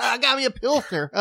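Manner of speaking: high mock Southern twang through laughter; put-on Southern accent. Co-host shows off his beer, Southern accent. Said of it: "to change accents".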